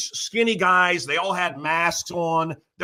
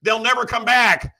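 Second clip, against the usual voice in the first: higher-pitched urgent retold plea; retold begging; 5 semitones higher than usual. Cops begging him to bring out Italians, retold begging. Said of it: "The cops are calling me, begging me".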